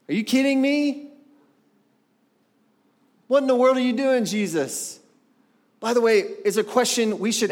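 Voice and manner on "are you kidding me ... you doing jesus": incredulous. Real, not acted. Preacher's exasperated outburst at Jesus.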